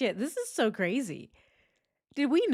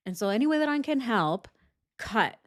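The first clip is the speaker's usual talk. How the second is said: quick mock quote; 2 semitones higher than usual. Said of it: "She cut the sentence right in".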